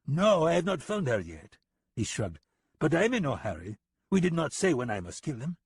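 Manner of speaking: high, sneering and amused; a smug, taunting killer; mocking foreign gunman. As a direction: talk down to him with a grin. Lipov's character voice.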